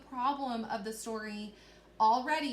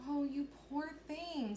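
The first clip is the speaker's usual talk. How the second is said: higher, slow, tender concern; worried sympathy; 4 semitones higher, 3 dB quieter than usual. Shown as a demonstration. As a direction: read as a character pitying a shivering animal. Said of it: "or even maybe worried".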